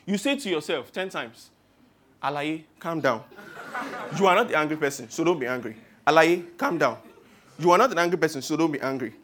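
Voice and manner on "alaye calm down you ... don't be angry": low-pitched, controlled self-talk; self-calming mantra. Acted. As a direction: talk yourself down from anger. Mantra repeated to keep calm.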